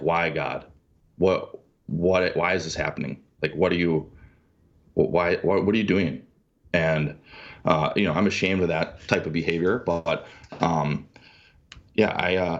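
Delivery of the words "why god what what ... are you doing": ordinary talk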